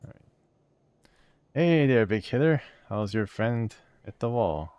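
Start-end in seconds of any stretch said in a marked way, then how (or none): 1.5-4.7 high, loud cocky greeting; a bright, brash higher voice for a mouthy skull; cheeky skull. Acted. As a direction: hail him like a wisecracking sidekick. Voicing Morte the skull.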